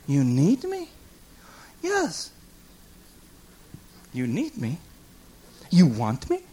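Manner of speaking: low, soft, wondering questions; awed disbelief. Pretend. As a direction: ask it quietly, hardly believing it. Awed reply to God's need.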